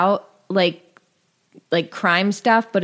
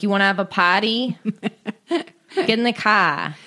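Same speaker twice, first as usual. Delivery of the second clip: mock Irish American Boston accent, lightly done; 3 semitones higher than usual. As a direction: toss off a jokey Boston accent at home. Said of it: "I just can't stop doing a Boston accent".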